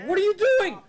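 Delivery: high, loud, outraged yell at the screen; a loud, high shout of disbelief; exasperated shout. Real, not acted. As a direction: shriek it at the reckless driver. Yelling at game driver.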